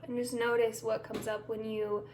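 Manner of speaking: unhurried meditation guide with long pauses; guided meditation. Acted. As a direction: ease listeners through each step, leaving room between phrases.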